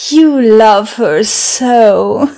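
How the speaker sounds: slow, teasing drawl; mocking. Woman mocking her suitor's love for Alicia. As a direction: tease him with each word. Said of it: "Why do you mock me".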